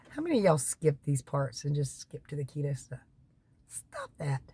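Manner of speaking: conspiratorial whisper to the viewers; teasing whisper. Real, not acted. Whispering to viewers who skip to the keto part, teasing. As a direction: lean in and whisper a playful scolding.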